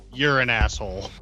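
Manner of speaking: ordinary talk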